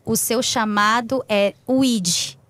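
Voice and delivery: low, tender voice of the Lord, retold; calm, mild divine counsel; sweet, gentle God. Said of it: "com aquela voz doce, mansa".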